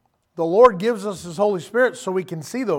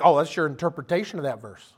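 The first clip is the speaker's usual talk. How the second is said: dismissive mock; 3 semitones lower than usual. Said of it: "they're like".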